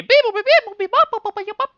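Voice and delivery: high chirpy robot beeping; robot beeps. Acted. GM voicing the stuck lawn bot, high robot beeps. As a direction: chirp it like a little machine.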